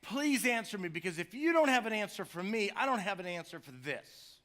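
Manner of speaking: earnest desperate plea; pleading. Retold or imitated. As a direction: beg for an answer with passion. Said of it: "he's saying it with such passion".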